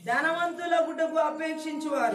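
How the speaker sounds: loud, high repetition of the verse; preacher shouts the verse back; shouted echo. Acted. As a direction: call the words back out loud.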